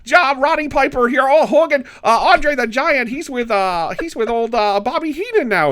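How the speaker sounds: high, loud hammed-up wrestler. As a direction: shout it like a ring promo. Wrestling recap in character voices.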